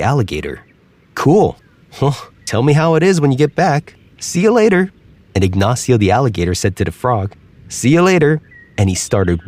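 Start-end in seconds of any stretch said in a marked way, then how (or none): 1.1-4.9 high, cheerful frog waving goodbye; light farewell, pitched up high. Acted. 7.7-8.4 lightly raised, casual alligator goodbye; easy parting words. Acted.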